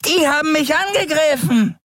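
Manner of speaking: an uncanny bony creature pointing out its victims; bizarre skeleton voice. A narrator's reading. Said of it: "verkündete seine bizarre Stimme".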